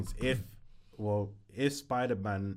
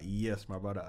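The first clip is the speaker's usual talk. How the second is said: put-on London accent; 4 dB quieter than usual. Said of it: "London accent".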